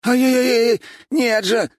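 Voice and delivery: high loud yelps; yelping in pain. A narrator's reading. Boy twisted by the council head, yelping. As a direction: cry out as your arm is twisted.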